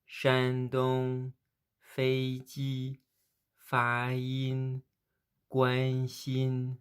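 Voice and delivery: premier ton tenu haut et plat sur Shandong, Feiji, Fayin, Guanxin; premier ton modèle. Shown as a demonstration. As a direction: tenir chaque syllabe haute et plate, bien détachée. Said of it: "Une deuxième fois". (prononciation modèle du premier ton, tenue haute et plate)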